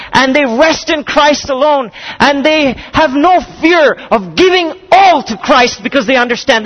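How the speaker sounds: rising, impassioned preaching toward the climax; full-force preaching. Acted. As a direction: preach it home to the congregation, slowing on the last phrases.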